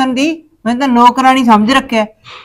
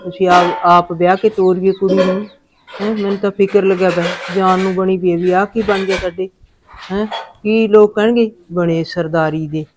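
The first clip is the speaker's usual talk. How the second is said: punjabi aunty; 4 semitones lower, 6 dB quieter than usual. Acted. Worried mother prays alone.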